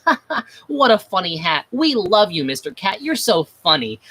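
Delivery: lightly voiced giggly kids cracking up; a hint of a class laughing along; laughing students. Students mock-laughing at the cat's funny hat. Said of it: "all the students started just falling over laughing".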